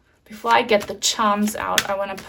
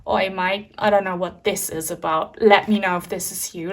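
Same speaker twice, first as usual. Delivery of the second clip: Cockney. Retold or imitated. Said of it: "So are you Cockney or something?".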